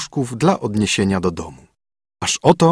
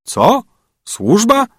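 much higher, mocking disbelief; servants? you must be joking; incredulous echo; 12 semitones higher, 3 dB louder, much slower than usual. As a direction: throw the word back at her, amazed. Beggar echoes her question.

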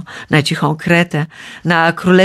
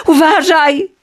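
higher, urgent warning; warning shout; 10 semitones higher, 4 dB louder than usual. A narrator's reading. Father tries to warn his son, urgent and higher. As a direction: try to warn the boy in alarm. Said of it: "chciał krzyknąć Dedal".

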